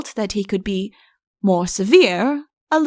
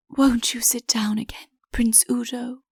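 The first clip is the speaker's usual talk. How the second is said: coaxing whisper; 2 semitones higher, 5 dB quieter than usual. Acted. Coaxing Udo to sit.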